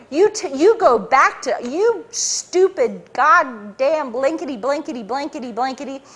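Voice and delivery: a hint of a boss screaming and raving; mock ranting boss. Boss ranting at his agent, a mild mock yell. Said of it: "screaming, ranting and raving".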